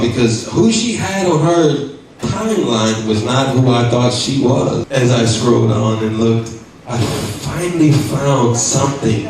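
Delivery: spooky storytelling voice; ghost voice. Pretend. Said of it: "turn on my ghost voice".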